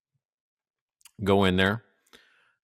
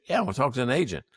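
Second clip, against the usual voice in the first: impatient answer; 3 semitones higher, much faster than usual. Retold or imitated. The caller snapping back at the phone menu, fast. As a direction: blurt it out quickly, fed up. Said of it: "when you say".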